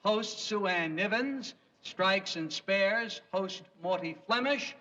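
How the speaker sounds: announcing award nominees formally; awards presenter. Acted. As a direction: read nominees like an emcee. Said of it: "the nominees are".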